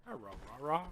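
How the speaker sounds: a light sing-song greeting with a rise on Hi; a hint of a sketch-show greeting; Chappelle's Show quote. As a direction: lightly call out Hi, Rah-Rah. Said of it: "That's from Chappelle's Show".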